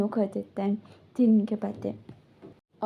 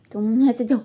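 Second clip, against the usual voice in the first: louder, sharp go away; angry order; 7 dB louder than usual. Retold or imitated. Annoyed partner telling him to leave, loud. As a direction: send him off in mock anger.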